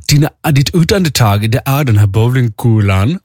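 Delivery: mock German accent at ordinary pitch. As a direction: explain it as a German instructor. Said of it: "hon pratade lite så här med tysk accent".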